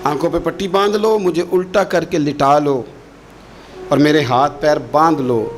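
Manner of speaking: son pleading. Retold or imitated. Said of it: "خود کہا تھا جناب اسماعیل نے".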